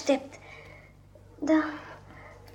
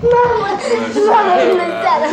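eager, louder cry of joy; boy greeting his mother, glad and loud; excited greeting; 4 semitones higher, 5 dB louder than usual. Acted. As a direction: run to her calling out.

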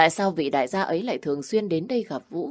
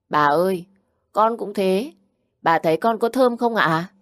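put-on child voice; 4 semitones higher, 5 dB louder than usual. Grandchild Vũ asks for praise.

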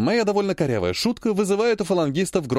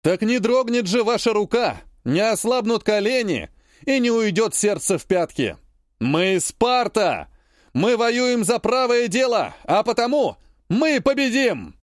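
raised, rousing commander's address to troops; rally the soldiers before battle, building to a cry; rousing war speech; 5 semitones higher than usual. Acted. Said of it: "Я говорю громко".

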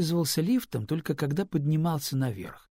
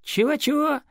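baffled; 7 dB louder than usual. Acted. Girl baffled by English phrase.

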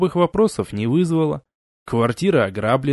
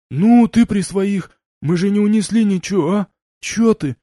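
russian street thug; 6 semitones higher, 4 dB louder than usual. A narrator's reading. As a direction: whine and bargain like a thug. Gopnik bargaining. (гопник, уговаривая)

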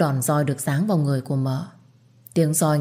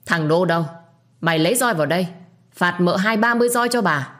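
furious command; 2 semitones higher than usual. Acted. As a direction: order the beating in rage. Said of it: "không còn kìm nén được cảm xúc tức giận". (giận dữ ra lệnh phạt roi)

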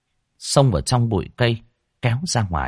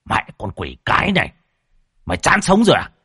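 angry curse; 6 semitones higher, 3 dB louder than usual. A narrator's reading. Thug bitten, curses.

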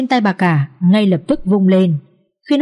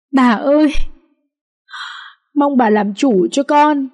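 wailing plea; 4 semitones higher than usual. Acted. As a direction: wail to the old lady for mercy. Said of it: "khóc giống lên". (giọng khóc lóc, cao và chậm, van nài bà)

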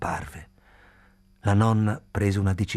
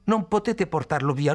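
raised, urgent shout; shouting plea; 6 semitones higher, 4 dB louder than usual. A narrator's reading. Khalil begging the grandmother, raised urgent shout. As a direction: beg them not to take him. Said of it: "gridò".

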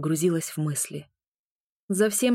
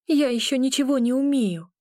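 panicked; 7 semitones higher, 3 dB louder than usual. A narrator's reading. Panicked tirade.

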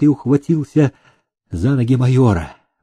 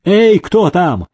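calling out; 5 semitones higher, slower than usual. Acted. Officer calls the soldiers.

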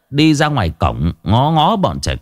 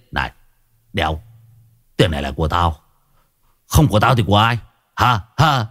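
mild snarl; 3 semitones lower, faster than usual. Acted. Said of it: "Hải Nghẹo rít lên".

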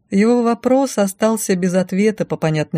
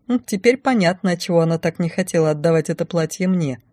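ordinary delivery

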